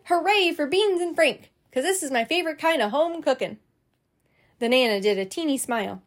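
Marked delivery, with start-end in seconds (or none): 0.0-3.6 put-on higher, eager little-girl voice; excited little girl. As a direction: gush like a kid getting her favorite meal. Junie cheers about her dinner.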